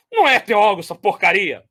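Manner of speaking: lightly hammed-up scorn; mock contempt. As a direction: spit out the dismissal with mild disdain. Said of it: "Só faltou ele falar".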